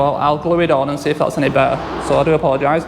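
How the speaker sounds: slightly thick speech from a numb tongue. Real, not acted. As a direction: talk around a numb bitten tongue. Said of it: "I'm talking a bit funny today 'cause my tongue's numb".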